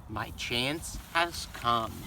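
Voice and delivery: low, slow scheming thought; sly inner thought. A narrator's reading. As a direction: think it quietly, plotting. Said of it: "inside he was thinking".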